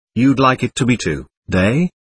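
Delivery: ordinary delivery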